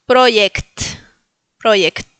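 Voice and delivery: "Project" as PRO-yekt, falling. Shown as a demonstration. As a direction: model "Project" with crisp final kt. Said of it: "tienen la J". ("Project" con jota como i griega)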